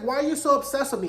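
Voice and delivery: high, quick mock exasperation; imitating Corey's challenge. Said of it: "like a singer's song".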